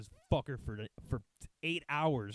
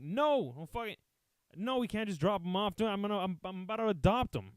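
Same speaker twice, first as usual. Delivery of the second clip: high, raised-voice mock protest; indignant refusal; 6 semitones higher than usual. Retold indignant refusal to intern.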